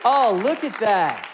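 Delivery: loud, high burst of joy; excited cheer. Real, not acted. New father showing his baby's photo, a loud, joyful cheer. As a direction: cheer it out like a proud new dad. Celebrating baby photo reveal.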